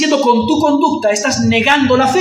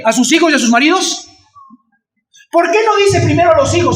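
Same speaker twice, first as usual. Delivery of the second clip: ordinary delivery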